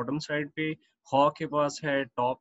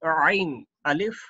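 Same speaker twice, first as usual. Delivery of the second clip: slow reading; 4 dB louder, much slower than usual. Shown as a demonstration. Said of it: "next पढ़ते हैं आइन अलिफ".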